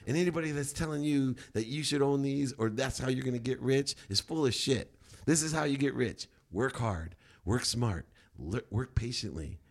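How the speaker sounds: high, loud, laughing rant to the crowd; preachy lecture. Retold or imitated. To party crowd, a loud high preachy rant. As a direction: lay down the law with a laugh. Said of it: "I'm like".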